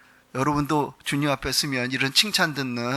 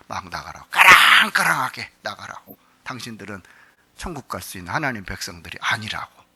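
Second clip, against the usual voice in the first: a light take on a stern Gyeongsang pastor; sharp Gyeongsang ring on 나가라고; Gyeongsang accent; 7 semitones lower, 4 dB louder than usual. Retold or imitated. Pastor mimics a senior pastor ordering people out, in Gyeongsang accent. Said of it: "억양이 경상도 억양으로 하면요".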